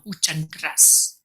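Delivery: ordinary talk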